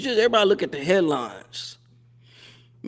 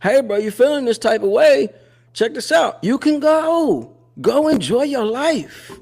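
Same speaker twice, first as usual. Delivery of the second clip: advice to the stepfather; 8 semitones higher, 3 dB louder than usual. Pretend. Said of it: "I would tell you this".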